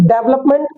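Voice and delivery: "डेवलपमेंट" as DEV-lup-ment; common mispronunciation. Shown as a demonstration. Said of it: "इसके according पढ़ रहे हैं". ("डेवलपमेंट" को डेव-लप-मेंट)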